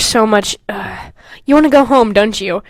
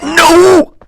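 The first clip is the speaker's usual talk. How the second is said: mock no; 5 semitones higher, 9 dB louder than usual. Acted outburst.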